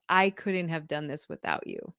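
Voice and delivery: low, soft retold tearful thanks; teary-eyed. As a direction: quote a child's teary thanks, low and quiet. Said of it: "totally teary-eyed".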